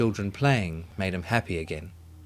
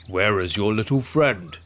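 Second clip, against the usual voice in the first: anxious question. A narrator's reading. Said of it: "he asked anxiously".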